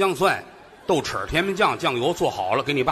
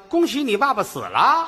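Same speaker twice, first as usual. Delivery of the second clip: mock shout; 9 semitones higher, 4 dB louder than usual. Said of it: "喊那个".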